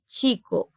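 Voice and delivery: "Chico" opening with a tch; demonstrated Spanish "Chico", tch at the start; ch as in tchê. Shown as a demonstration. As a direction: say "Chico" with CH almost like a T plus sh. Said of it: "com esse som de quase um T".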